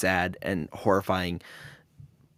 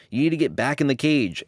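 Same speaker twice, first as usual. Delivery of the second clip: slightly raised, mildly urgent mock yell; mock panicked yell; 4 semitones higher, 3 dB louder than usual. Crew member warning the divers about the cage, mock yell. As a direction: imitate a panicked warning without really shouting. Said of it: "decides to yell".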